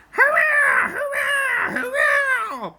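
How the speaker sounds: high, loud mocking cheer; gleeful trucks cheering. Runaway trucks cheer at their escape, squeaky high gleeful. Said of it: "they laughed".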